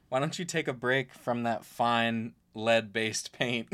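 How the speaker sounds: announcer voice. Retold or imitated. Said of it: "the announcer says".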